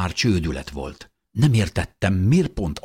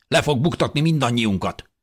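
higher, anxious complaint; man's alarmed cry; 7 semitones higher than usual. A narrator's reading. Man fears baby will betray everyone, crying out. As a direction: accuse in a raised voice. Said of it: "kiáltott egy férfi".

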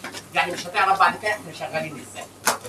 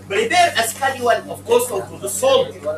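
slow dictation; 4 semitones higher, 3 dB louder, much slower than usual. Shown as a demonstration. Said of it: "وراه".

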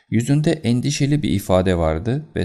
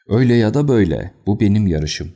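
fast, louder gasping rush; breathless amazement; 2 semitones higher, 5 dB louder than usual. Acted. Colonel stunned after his horse wins, breathless. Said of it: "şaşkınlıktan soluyarak".

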